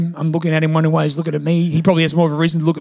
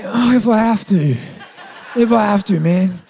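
playfully put-upon acceptance, slightly raised pitch; mock reluctance. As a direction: pretend it is a great sacrifice. Mock reluctance at first class invitation.

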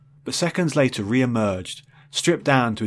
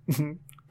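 whimper; 6 semitones higher, 4 dB quieter than usual. Acted. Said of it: "he whimpered".

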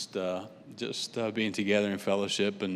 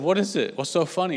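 higher, puzzled retelling of his question; puzzled retort; 7 semitones higher, 4 dB louder than usual. Retold or imitated. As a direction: ask it higher, baffled at the joke. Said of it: "And I said".

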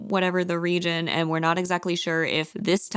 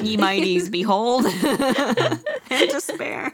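laughing hammed-up pirate; 4 semitones higher than usual. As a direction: growl it like a pirate captain. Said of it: "They both sound like a pirate".

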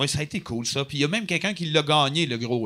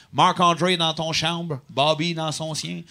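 put-on broken French accent; 4 dB quieter, slower than usual. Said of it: "cet accent-là était hallucinant".

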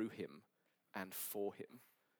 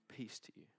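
whispered blessing; whispered peace; 9 dB quieter than usual. Acted. Preacher offering peace to those hiding, whispered. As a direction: hush it tenderly.

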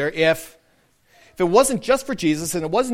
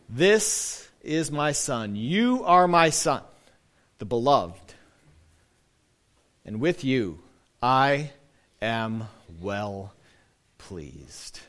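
mysterious voice; 4 semitones lower, much slower than usual. Acted. Pastor voicing God to the congregation, slow and hushed. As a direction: speak as a gentle voice from above. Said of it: "this mysterious voice".

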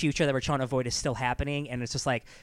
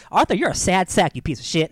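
mock insult; 4 semitones higher, 6 dB louder than usual. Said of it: "shuts her book and like".

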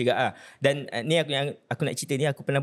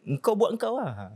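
casual advice voice; 6 semitones higher, slower than usual. Retold or imitated.

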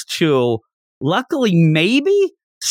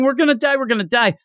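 higher, panicky mock yell; mock panicked yell; 9 semitones higher, much faster than usual. Recapping the anime, mimics Zenitsu yelling in mock panic. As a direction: imitate a coward yelling in panic. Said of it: "He's yelling".

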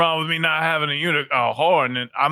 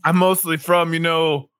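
put-on grumpy New York accent. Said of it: "what happened to your accent".

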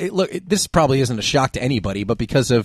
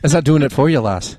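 woo them with an Irish lilt; sexy Irish accent. Acted. Host checking if it works, sexy Irish accent. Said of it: "You said you do a sexy Irish".

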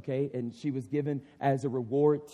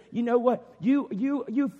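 much higher, louder furious scolding; scolding yell; 9 semitones higher, 8 dB louder than usual. Acted. Preacher voicing Michal yelling at the king, high furious scolding. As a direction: tear into him like a shamed wife. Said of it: "she just starts yelling at him".

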